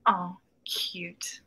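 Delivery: usual speaking voice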